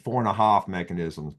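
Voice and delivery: put-on light Boston accent on four; playful Boston accent, dropping r. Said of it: "I'll use my Boston accent".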